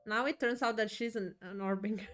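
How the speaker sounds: excited. Real, not acted. Streamer reacts to prophecy reveal.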